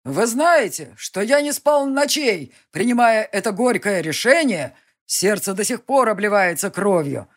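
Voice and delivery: a ruler rousing his soldiers; solemn leader's speech. Acted.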